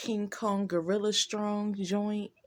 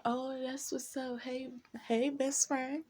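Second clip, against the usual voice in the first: fake friendly; 5 semitones higher than usual. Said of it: "I was just like".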